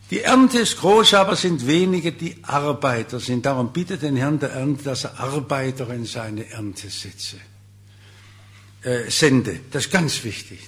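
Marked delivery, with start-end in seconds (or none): 0.1-7.4 opens loud and slow, then settles; solemn scripture quote. Acted. Preacher proclaiming Jesus' words on the harvest, loud then solemn. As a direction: proclaim the verse, big first then fading. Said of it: "und sagt".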